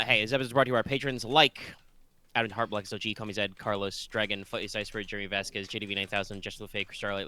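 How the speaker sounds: brisk sponsor-read voice. Acted. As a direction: read the credits like an ad. Patron ad read.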